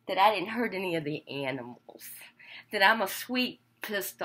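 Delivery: breathy stage whisper. Real, not acted. Vlogger whispers to viewers about the animals, hushed. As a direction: confide it in a whisper.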